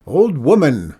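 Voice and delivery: loud call from the ledge. Acted. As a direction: call down to her mockingly. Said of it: "the man called down".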